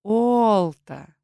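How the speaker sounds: Олта с долгим тягучим «О»; протяни имя Олта медленно; медленно протянуто. A narrator's reading. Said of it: "протянула медленно". (тягучее, медленное «Олта»)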